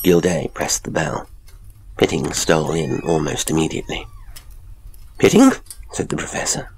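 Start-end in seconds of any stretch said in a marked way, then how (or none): 5.2-5.5 loud, high-pitched summons to a servant; high, sharp voice. A narrator's reading. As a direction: call the butler sharply, right up high. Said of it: "speaking in a high, sharp voice".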